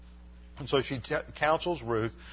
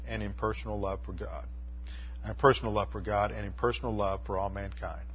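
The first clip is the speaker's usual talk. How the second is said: gentle pastoral prayer, trailing down; closing prayer; 2 semitones lower than usual. Acted. Closing prayer over congregation.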